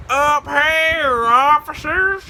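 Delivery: high, sing-out call. Retold or imitated. Prankster up a tree to searching officers, high teasing call. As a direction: call down sweetly high, without shouting.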